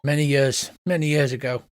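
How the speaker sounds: put-on slipped out of the character's accent; the accent the GM drifted into by mistake; lightly accented carnival voice; wrong accent. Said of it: "I've got the wrong accent now".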